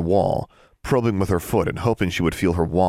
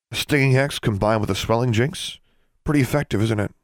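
smug; 5 semitones higher than usual. Acted. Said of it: "Larry sounded very smug".

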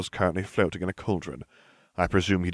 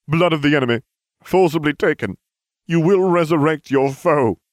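high, loud solemn chanting; ringing ceremonial proclamation; ritual incantation; 9 semitones higher, 8 dB louder than usual. Acted. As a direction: declaim each phrase like a spell. Servant recites ritual incantation.

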